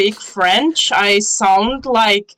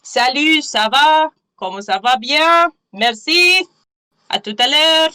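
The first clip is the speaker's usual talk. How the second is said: higher-pitched French basics in a foreign accent; 5 semitones higher than usual. Shown as a demonstration. Showing a listener basic French words, accented French. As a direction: recite French phrases with your own heavy accent, pitched up. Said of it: "It sounds so bad".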